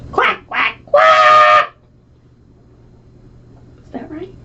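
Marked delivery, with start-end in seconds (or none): 0.1-1.7 high quacking puppy; duck quack. Acted. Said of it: "And George went".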